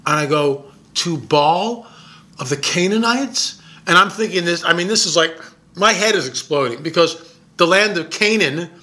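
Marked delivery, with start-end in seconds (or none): 0.9-3.6 incredulous echo. Retold or imitated. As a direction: repeat the name, rising at the end in disbelief. Repeating the name in disbelief.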